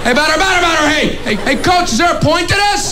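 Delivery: put-on a kid who feels like an idiot; whiny kid chatter.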